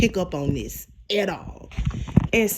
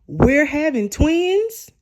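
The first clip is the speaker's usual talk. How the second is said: drawn-out, higher incredulous question; imitating stunned surprise; surprised question; 7 semitones higher, 3 dB louder, slower than usual. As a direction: ask it slowly in disbelief, rising at the end. Zach's surprised question acted out.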